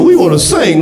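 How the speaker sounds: high, polite caroler voice; mock caroler voice. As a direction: sing it sweetly like a nervous caroler. Voicing white carolers.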